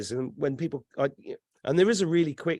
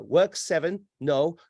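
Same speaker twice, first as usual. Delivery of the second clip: lightly voiced robot searching its files; a hint of glitching robot recital; malfunctioning robot; 2 semitones higher, slower than usual. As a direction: mimic a machine running through options. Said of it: "It's a malfunctioning robot".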